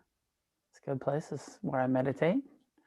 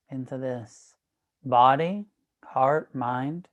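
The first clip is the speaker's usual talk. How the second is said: measured meditation guide, long pauses between phrases; guided meditation. Real, not acted. Teacher guiding an online class into breath awareness, guided meditation.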